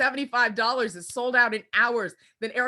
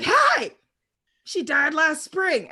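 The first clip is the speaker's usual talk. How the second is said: mock wounded reply; 5 semitones higher, 5 dB louder, slower than usual. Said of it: "the person would come back and be like".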